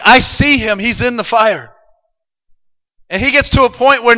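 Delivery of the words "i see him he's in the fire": raised, emphatic exclamation easing at the end; a touch of alarm, high and loud at first; freaking out. Acted. Preacher acts the king spotting him, mildly freaking out. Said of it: "the king's freaking out".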